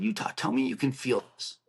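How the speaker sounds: restrained retold plea to a friend. Squeezing Utah's arm a little harder, restrained retold plea. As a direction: plead with mild urgency, holding back.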